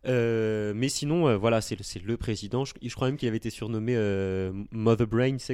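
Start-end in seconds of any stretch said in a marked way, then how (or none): 4.7-5.3 French speaker's English accent. Real, not acted. Podcaster showing off an English nickname, English accent. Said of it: "t'as vu mon accent anglais".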